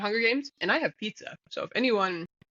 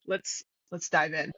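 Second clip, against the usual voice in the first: low, slow sign-off catchphrase; Josh impression; 4 semitones lower, 4 dB quieter than usual. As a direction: do Josh's dive in line. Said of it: "Is that good?".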